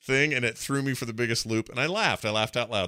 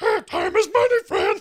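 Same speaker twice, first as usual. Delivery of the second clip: squeaky goblin voice, far higher and louder; old goblin voice; 7 dB louder than usual. Retold or imitated. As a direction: pitch way up into a cartoon goblin. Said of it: "they'll tap into an old one and go".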